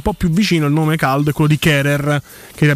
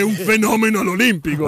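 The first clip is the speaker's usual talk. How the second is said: breathless italian goal commentary; 4 semitones higher than usual. Retold or imitated. Recalls famous goal commentary.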